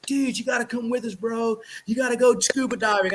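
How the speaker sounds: lightly voiced fast surfer bro; a touch of a chill beach dude; Surfer Bob voice. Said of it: "Surfer Bob voice".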